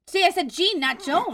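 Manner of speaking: high laughing protest; laughing exasperation. Real, not acted. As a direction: laugh at your own slip. Laughing at own mistake.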